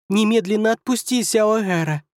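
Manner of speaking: high, piercing mouse-like squeak; squeaky pixie voice. Acted. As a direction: squeak it out like a tiny angry fairy. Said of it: "Тоненьким, как у мыши, пронзительным голоском пропищала".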